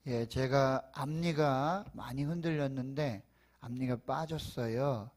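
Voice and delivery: lisping through a gap in the teeth; missing front teeth. Real, not acted. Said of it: "발음이 혹 새일 수 있어요".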